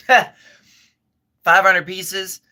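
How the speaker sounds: laughing through the words; slow, laughing repeat. Real, not acted. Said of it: "excuse me".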